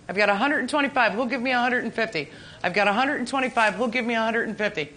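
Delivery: quick auctioneer bid calling. Acted. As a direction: rattle off the bids fast.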